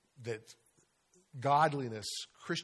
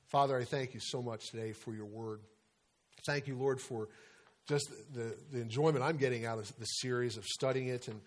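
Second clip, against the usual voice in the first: prayer. Acted. Pastor prays to God ending the sermon. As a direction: pray sincerely to close the study.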